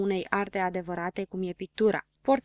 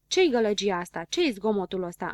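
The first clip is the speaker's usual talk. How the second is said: shouting; 3 dB louder than usual. Acted. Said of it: "începu el să strige".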